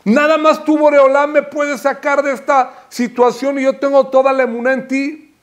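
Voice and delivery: a hint of desperate supplication; pleading prayer. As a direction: cry out to God as your only hope. Voicing a heartfelt plea to God.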